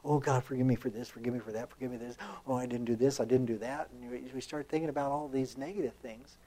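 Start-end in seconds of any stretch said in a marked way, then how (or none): 0.0-3.9 low, hurried run of mock-panicked pleas; panicked pleading. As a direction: rattle off excuses to God under your voice, acting out panic. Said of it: "would we panic and say".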